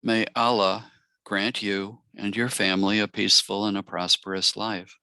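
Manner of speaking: measured, reflective reading with long pauses between blessings; blessing read aloud. Acted. Meditation guide reading Eid blessings to the circle, reflective blessing. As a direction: offer each blessing and let it settle.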